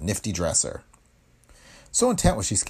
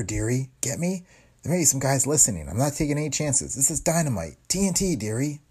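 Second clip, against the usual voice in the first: put-on high, brassy gangster's girl voice; tough-talking moll; 5 semitones higher than usual. Tipster woman on the phone to the reporter, high moll voice. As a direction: lean in like a streetwise dame with a secret.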